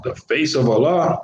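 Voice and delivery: "Allah" rising in disbelief at the end; incredulous question. Shown as a demonstration. Teacher mocking a literal translation, incredulous rising question. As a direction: ask "The face of Allah?" as if the idea can't be right.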